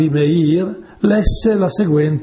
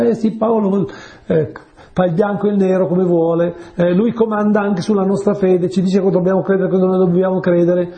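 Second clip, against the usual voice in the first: imitated complaint in a raised, insistent pitch; mock grumbling; 4 semitones higher than usual. Believers gossiping about Paul's bossiness, mock complaining. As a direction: voice the grumblers' running list of grievances.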